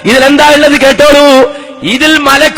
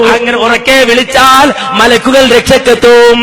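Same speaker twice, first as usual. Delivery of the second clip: full-force preaching. Acted. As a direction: proclaim it to a crowd, stretching the last words. Preaches at full force, reading a quote. (ഉച്ചത്തിൽ നീട്ടിയുള്ള മതപ്രഭാഷണ ശൈലി)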